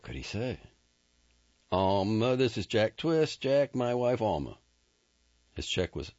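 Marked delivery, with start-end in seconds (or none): 1.7-4.6 higher, louder cowboy voice, caught off guard; nervous rancher voiced a touch higher; flustered Ennis. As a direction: blurt the introduction in a panic. Ennis introduces Jack.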